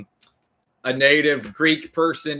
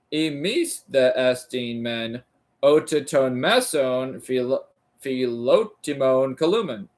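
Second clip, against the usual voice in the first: sounding it out. Shown as a demonstration. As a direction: feel your way through each syllable. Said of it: "Imis columen, oh".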